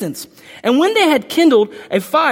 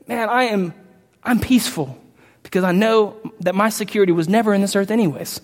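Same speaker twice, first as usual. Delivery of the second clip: a believer answering the panicked crowd in calm peace; 2 semitones lower than usual. Retold or imitated.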